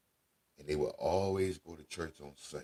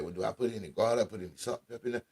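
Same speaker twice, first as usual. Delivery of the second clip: higher voice of a questioning grandkid; imitated grandchild asking; 6 semitones higher, 3 dB louder, much faster than usual. Grandchild asks grandma about salt and pepper, lightly imitated higher voice. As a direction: lightly voice a grandchild checking the recipe.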